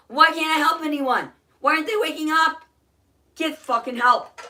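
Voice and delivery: furious outcry. Real, not acted. Ranting at the selfish father, crying out furious. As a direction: cry out in real despair and fury.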